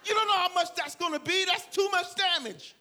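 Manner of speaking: high, loud disbelief with laughter; incredulous laughing. Retold or imitated. Preacher to himself, high laughing disbelief. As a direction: laugh at your own crazy offer. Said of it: "I said".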